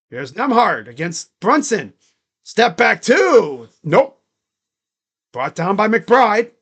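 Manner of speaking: stretched, punchy shot call; live play-by-play. Real, not acted. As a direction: follow the ball aloud. Calls the game live.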